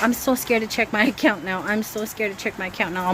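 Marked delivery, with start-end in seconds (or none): 0.0-1.6 nervous laugh. Real, not acted.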